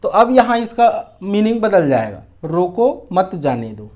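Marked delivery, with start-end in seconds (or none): 2.4-3.9 रोको, short break, then मत जाने दो together; slow demo with a comma after रोको; pause after रोको. Shown as a demonstration. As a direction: set रोको apart from मत जाने दो. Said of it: "अल्प विराम यहाँ इसमें लगा देता हूँ".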